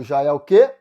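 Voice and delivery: ordinary talk, nothing marked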